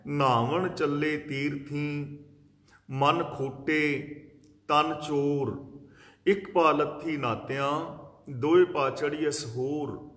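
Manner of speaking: slow, measured verse reading; deliberate scriptural quoting; scripture recitation. Acted. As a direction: recite the sacred verse phrase by phrase, with pauses.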